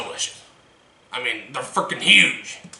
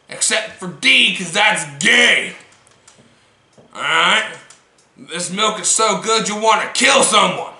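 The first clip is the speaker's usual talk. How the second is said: hyped sales pitch; 4 semitones higher, 4 dB louder than usual. Acted.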